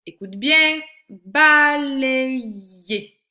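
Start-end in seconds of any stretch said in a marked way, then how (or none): 1.1-3.2 loud, drawn-out "Balayer", each syllable held high; teacher's slow, projected syllable demo of "Balayer". Shown as a demonstration. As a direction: stretch "Balayer" out so every syllable is heard. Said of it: "dans quelle syllabe tu entends".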